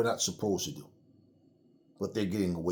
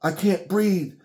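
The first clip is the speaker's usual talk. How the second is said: high, straining cry of someone suffocating; mock gasping plea, rising high and loud; desperate plea; 9 semitones higher, 5 dB louder, slower than usual. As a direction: plead for air, voice climbing. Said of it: "And he starts saying".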